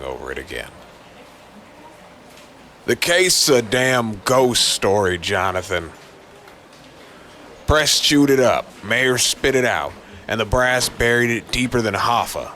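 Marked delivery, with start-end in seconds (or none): 2.9-12.5 a lightly voiced tough police chief, fed up; gruff police chief. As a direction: play the weary chief brushing him off. Chief voice in story.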